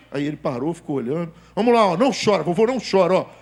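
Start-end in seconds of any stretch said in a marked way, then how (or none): 1.6-3.3 hammed-up bravery, pushing on loudly; tough grandpa. Grandpa coaching crying grandson, then nurse, mock-tough. Acted grandpa braving the needle.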